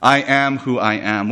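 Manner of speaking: slow, measured and solemn; weighty. Acted. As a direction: give each word its weight. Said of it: "the weight of what's being said here".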